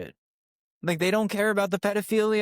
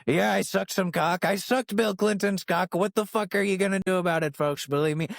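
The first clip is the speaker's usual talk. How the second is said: Trump impression; 2 semitones higher than usual. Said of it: "doubles, triples the fuck down".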